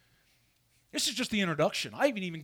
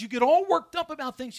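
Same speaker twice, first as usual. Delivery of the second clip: quoted rebuke, higher and much louder; 9 semitones higher, 10 dB louder than usual. Retold or imitated. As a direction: throw the line out like a scolding. Quoting Jesus rebuking worriers.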